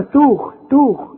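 توخ with a light ت; wrong thin ta. Shown as a demonstration. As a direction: mistaken thin sound of توخ. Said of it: "ما تقولش بقى".

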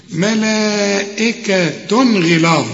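ملائكة drawn out very slowly; recitation demo. Shown as a demonstration. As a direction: hold the madd of ملائكة. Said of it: "ما تقولش ملائكة". (مد ملائكة ببطء)

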